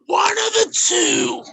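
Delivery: slow angry shout. Real, not acted. Drunken furious stream fight.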